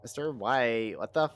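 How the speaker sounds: mock valley girl whine rising to a loud yell; valley girl Jesse. Joking to a teammate about Breaking Bad, mock valley girl yell. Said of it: "Jesse was just replaced with a valley girl".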